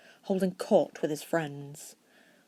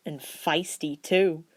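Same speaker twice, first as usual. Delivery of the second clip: cooing; slower than usual. Acted. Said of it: "George cooed".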